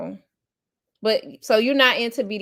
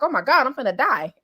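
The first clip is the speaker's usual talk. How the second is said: higher, half-laughing mock alarm; retold panic; 5 semitones higher, 4 dB louder than usual. Recounting a first choking scare, mock panicked. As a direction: act out a comic fear of dying. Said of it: "I was like".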